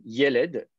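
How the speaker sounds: "yeled" stressed on its first syllable, YE-led. Shown as a demonstration. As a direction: put the accent on "ye" in "yeled". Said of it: "il est accentué sur la première syllabe". (« yeled » accentué sur la première syllabe)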